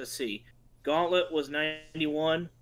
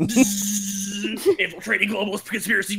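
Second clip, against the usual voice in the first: mock dramatic; 4 semitones higher, 4 dB louder, slower than usual. Describing over-the-top game.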